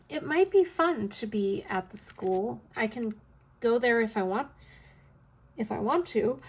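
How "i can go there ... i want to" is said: talking into a sudden yawn. Real, not acted. Vlogger caught by a sudden yawn mid-sentence, yawning. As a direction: let a real yawn creep into the words. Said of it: "Sorry, I yawned all of a sudden".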